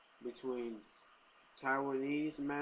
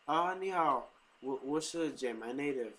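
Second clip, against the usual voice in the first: Taiwanese accent; 3 semitones higher, 5 dB louder than usual. Shown as a demonstration. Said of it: "So if I say".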